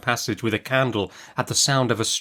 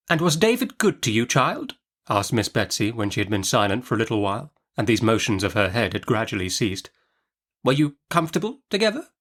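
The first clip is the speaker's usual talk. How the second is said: Miss Betsy. Acted. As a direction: snap the question like a stern old aunt.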